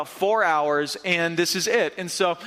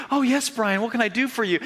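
imagined mom; 4 semitones higher than usual. Retold or imitated. Kid imagines mom answering.

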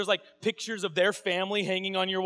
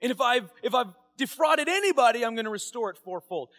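fervent pledge; 2 semitones higher, 5 dB louder than usual. Retold or imitated. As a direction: stand up and proclaim it. Zacchaeus jumps up declaring.

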